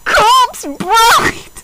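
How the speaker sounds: high, loud outraged squeal. Real, not acted. Protesting that Corpse Bride isn't a depressing movie, in a high outraged squeal. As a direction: shriek it in disbelief.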